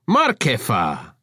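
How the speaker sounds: slow, delighted call of her name; beaming greeting. Acted. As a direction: beam as you greet her. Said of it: "Avra beamed".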